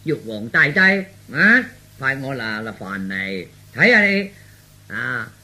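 mock tirade with punched openings; feigned mad scolding. Son faking madness scolds father for show, mock rant. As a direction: play the madman berating an old man. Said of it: "嗱，我要鬧你".

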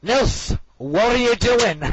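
high, loud scolding teacher; mock a teacher catching a pupil out; exaggerated indignant telling-off; Miss Hines impression. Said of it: "Okay, Miss Hines, right".

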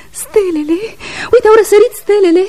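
high, fast, ecstatic urging; exalted cry. Acted. Woman urging Iordache outside, exalted and high. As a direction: fling him toward the stars.

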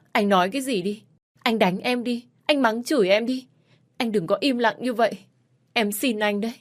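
wife begging silent husband to speak; crying plea. Acted. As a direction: plead through tears. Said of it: "kêu khóc, nài nỉ".

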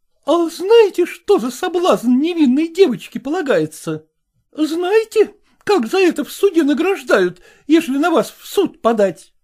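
high, loud, scolding woman's voice; indignant madam. A narrator's reading. Zoya challenging Selezenkin, high and indignant. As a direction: demand it like an outraged choir mistress. Zoya's voice, narrator reading.

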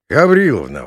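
loud call of her name; exclaiming. Acted. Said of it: "воскликнул председатель". (громкий окрик)

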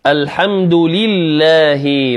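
slow الحمد لله with full "li" and "hi"; clear kasra. Shown as a demonstration. Teacher modelling correct recitation, clear kasra in لله. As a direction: give لله crisp i vowels. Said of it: "لا يبين المكسور".

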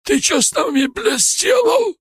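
high, loud, outraged yell; angry shout. A narrator's reading. Бычок demands what was done to them, angry shout. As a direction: shout it in fury, stretching the last word. Injured thug yelling at his attacker.

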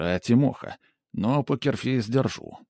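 usual speaking voice

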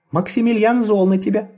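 high squeaky chick voice; peeping baby chick. A narrator's reading. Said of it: "сказала она".

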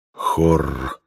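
deep growling bear voice. Acted. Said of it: "повторил медведь".

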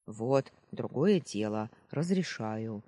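put-on sentry graciously approving the boy's report; graciously condescending. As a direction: grant permission like a pleased superior. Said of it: "милостиво кивнул часовой".

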